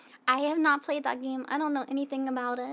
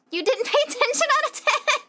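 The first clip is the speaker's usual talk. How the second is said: mock disbelief; 9 semitones higher, 5 dB louder than usual. Real, not acted. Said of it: "All right".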